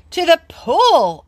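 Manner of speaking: high, loud, drawn-out yell. Acted. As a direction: shout it for all to hear. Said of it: "I yelled".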